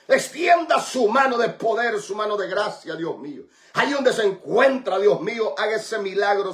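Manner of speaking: impassioned, insistent intercession in rising and falling waves; forceful, rhythmic prayer, building on repeated phrases; fervent healing prayer. Real, not acted. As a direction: plead and declare healing like a preacher praying.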